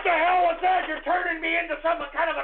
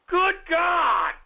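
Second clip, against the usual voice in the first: exasperated shout; 4 semitones higher than usual. Real, not acted. Host exasperated after a call.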